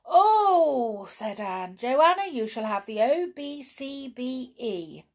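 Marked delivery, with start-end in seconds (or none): 0.1-1.0 high, loud drawn-out cry of delight. A narrator's reading. Girl delighted by breakfast menu. 1.8-5.0 high-pitched, excited proclamation; delighted girl. A narrator's reading. Girl delighted, rewards cook.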